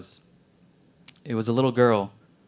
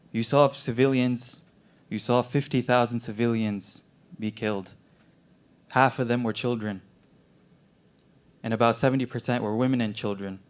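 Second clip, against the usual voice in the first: gently. Retold or imitated. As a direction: lay out the hard facts gently. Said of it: "he told me very gently".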